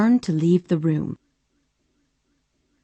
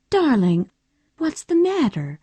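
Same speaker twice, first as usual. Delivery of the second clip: gently; 8 semitones higher than usual. A narrator's reading. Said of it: "she said gently".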